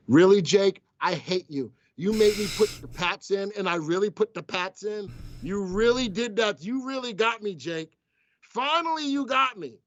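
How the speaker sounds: high, playful outrage; playful mock anger at coworker; mock indignant. Real, not acted. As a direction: scold the prankster in fun. Pranked by coworker Jake.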